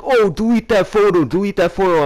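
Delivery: hammed-up high-pitched nagging; mocking girl imitation. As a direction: mimic an indignant girl pestering. Girls' demand acted out mockingly.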